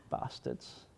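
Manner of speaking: muttered under the breath; whispered curse. Real, not acted. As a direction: whisper it bitterly. Bitter aside after laugh.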